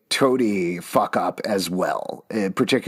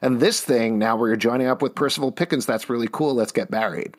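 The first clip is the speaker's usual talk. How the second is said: sarcastic. Acted. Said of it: "I'm being sarcastic here".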